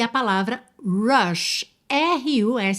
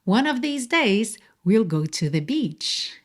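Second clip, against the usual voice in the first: slow model answer; slower than usual. Shown as a demonstration. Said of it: "Um dia desses a gente vai à praia".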